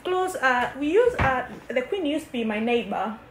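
mock British accent, lightly done; a kid faking a British accent; put-on British accent. Sister teased for her mock British accent. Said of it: "Stop talking that way".

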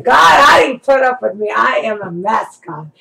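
lightly exclaimed, laughing-at-herself plea; mock exasperation. Retelling a confession to God, mock exasperated. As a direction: exclaim it to God, loud at first.

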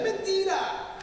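high, sudden exclamation of denial; emphatic rebuttal. Real, not acted. Preacher rebutting the congregation's complaint, emphatic high exclamation. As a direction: burst out high to knock the claim down.

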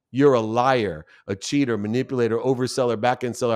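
listing the insults plainly, with a firm edge; lightly voiced anger, mostly plain; retold accusation. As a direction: throw each label at him in turn. Angry accusation of the father.

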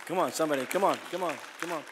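high, loud preacher's call to the crowd; rousing call. Real, not acted. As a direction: whip up the congregation, shouting.

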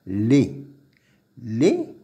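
"les" with a closed é sound; "les" 는 '레' 로 발음. Shown as a demonstration. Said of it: "on dit bien".

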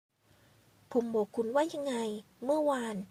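a touch of icy reproach, held back; lightly voiced cold scolding from the man. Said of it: "ชายหนุ่มเอ่ยเสียงเย็น". (น้ำเสียงเย็นชาตำหนิเบาๆ)

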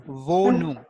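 "Wohnung" with a V start and long O; careful teacher's model of "Wohnung"; German W as V. Shown as a demonstration. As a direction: say Wohnung as vo-noong. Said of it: "W sound in German is".

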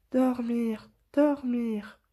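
roucoulement doux et un peu plus haut; roucoule-le, tout ensommeillé; roucoulé. A narrator's reading. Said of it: "roucoula-t-il". (petite voix tendre qui roucoule)

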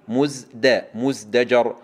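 مزدجر split after مزد, distinct د; careful drill, مزد then مزدجر; clear dal before jeem. Shown as a demonstration. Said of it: "ننتبه إلى حرف الدال".

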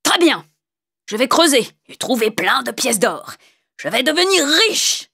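high, greedy cry of triumph; exclaiming. Acted. Wicked man expecting to dig up gold, exclaiming. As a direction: crow it, rising on the last words. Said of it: "s'écria le méchant homme".

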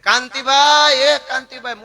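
drawn-out, high call to the neighbour; slow, high call across to the neighbour's window; calling out loudly. Retold or imitated. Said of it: "મોટે મોટે અવાજે". (પડોશીને બારીમાંથી ઊંચા સાદે, ધીમે લંબાવીને બોલાવે)

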